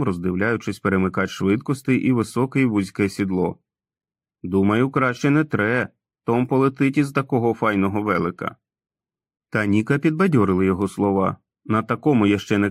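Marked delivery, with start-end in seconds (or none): 4.4-8.6 put-on sheepish grown man who talks like a boy; childlike Tom. (несміливий дитячий голос Тома)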